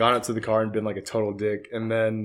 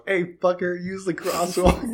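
calling out; 5 semitones higher, slower than usual. Retold or imitated. Calling out from car to jaywalker.

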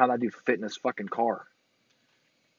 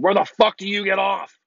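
mock yell out the car window, higher; retold yell; 7 semitones higher, 5 dB louder than usual. Retelling yelling at an Avenger driver, mock yell. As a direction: half-shout the question like a rant. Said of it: "leaned out of the car and yelled".

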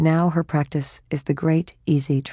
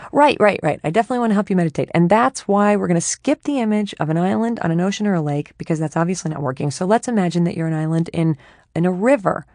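hurried chatty mind. Acted. Her mind rushing to offer a new image, eager and chatty. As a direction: rush to keep helping.

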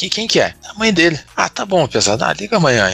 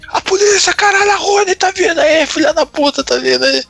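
put-on panicked drunk shout. Drunk guys at the party yelling that the police are coming. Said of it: "começaram, tipo, a fazer paredão".

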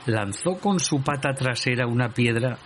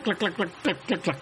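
clacking noise; 7 semitones higher, 5 dB quieter than usual. A narrator's reading. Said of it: "haciendo un ruidoso clac".

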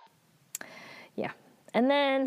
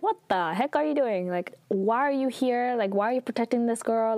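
higher, quicker panicked questions, lightly played; mild freak-out; 4 semitones higher, faster than usual. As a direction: rattle the questions off in half-hearted alarm. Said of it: "she's freaking out".

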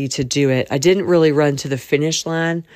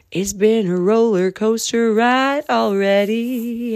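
dramatic; 6 semitones higher, 4 dB louder, slower than usual. Real, not acted. Dramatic emphasis.

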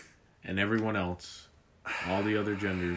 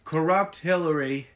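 louder, punchy Trump rally voice; loud Trump impression; 7 semitones higher, 5 dB louder than usual. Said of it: "You just have to channel".

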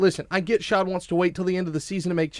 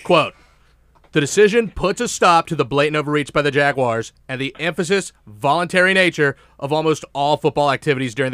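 a hint of Jim Rome, louder and punchy; 5 dB louder than usual. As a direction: read it out like a radio host playing it up. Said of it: "I'm gonna do it as Jim Rome".

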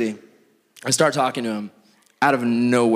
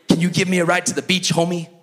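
higher, lightly voiced gangster request; mock gangster; 6 semitones higher than usual. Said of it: "total straight up gangster".

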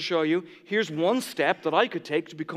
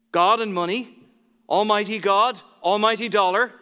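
emphatic contrast; 3 semitones higher, 6 dB louder than usual. Acted. Preacher contrasts God and money.

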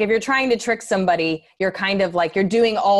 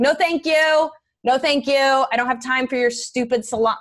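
curt brush-off; 4 semitones higher than usual. Retold or imitated. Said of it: "I'll be like".

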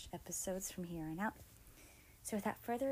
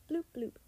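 high imitated alert bloops; phone bleep; 6 semitones higher, 3 dB louder than usual. A narrator's reading. Narrator mimicking two phones sounding in tandem, high bleeps. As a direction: pop out two higher electronic bloops. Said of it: "phones sounded in tandem".

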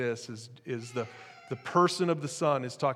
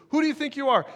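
much higher, pushed challenge; indignant retort; 12 semitones higher, 5 dB louder, faster than usual. Retold or imitated. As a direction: throw the question back, high and pointed. Voicing crowd's indignant challenge.

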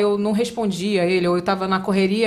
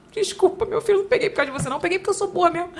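mock apology; 7 semitones higher, faster than usual. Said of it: "Aí eu".

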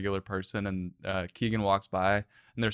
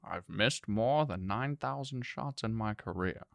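a hint of Morgan Freeman, unhurried and grave; host reading a Michael Jordan quote as Morgan Freeman; Morgan Freeman impression; 4 dB quieter than usual. Shown as a demonstration. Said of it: "a Morgan Freeman impression here".

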